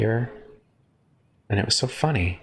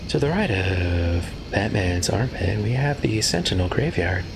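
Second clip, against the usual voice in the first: tour guide voice. Pretend. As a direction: point out the sights like a guide. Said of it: "down there on my tour guide voice".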